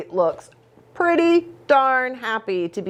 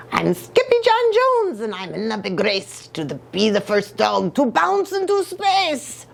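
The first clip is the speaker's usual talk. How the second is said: excited boast. Acted. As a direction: cheer your own name like a racer. Skippy boasting in story.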